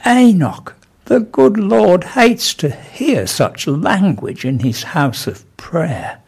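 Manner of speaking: high call sinking into slow, solemn rebuke; angel's thrown voice. Acted. Vicar throws his voice as angel to scold Enoch, slow and lofty. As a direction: intone slowly, as a heavenly reproach. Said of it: "he threw his voice as though it was coming from that angel".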